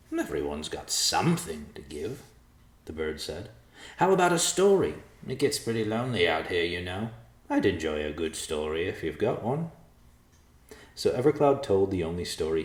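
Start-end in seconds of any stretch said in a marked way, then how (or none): 0.1-9.7 lightly voiced bird, a little wistful; lonely vulture. Vulture asking for a story, lightly voiced wistful bird. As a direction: bargain for a story.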